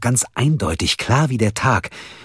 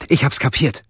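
excited panting; 8 semitones higher than usual. Acted. Mia on the phone to sleepy Holger, breathless and excited. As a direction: gasp it out, bursting with the news. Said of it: "keuchte Mia aufgeregt".

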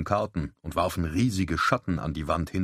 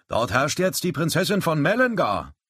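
put-on young lad; 10 semitones higher, 4 dB louder than usual. A narrator's reading. Boy quoted at card table.

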